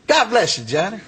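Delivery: high, lilting mock blessing; cheerful reverend impression. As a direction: imitate a preacher sweetly calling out a blessing.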